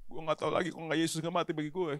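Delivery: a light take on his friend's streetwise preaching voice; playful impression of a fellow pastor; imitating friend's preaching. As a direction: mimic the casual slangy preacher, half joking. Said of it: "Cara dia ngomong kan kayak gitu kan".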